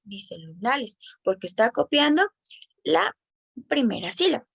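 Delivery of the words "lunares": "lunales" with the r of lunares turned into an l, said softly; child's mispronunciation. Shown as a demonstration. Teacher showing progressive assimilation, child's mispronunciation. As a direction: say "lunales", swapping the r for an l. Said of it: "en vez de decir lunares".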